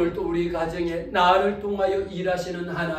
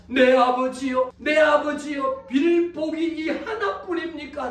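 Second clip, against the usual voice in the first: desperate pleading; 6 semitones higher, 3 dB louder than usual. Acted. Cheated elder son begging his father, desperate pleading. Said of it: "에스가 아버지에게 이릅니다".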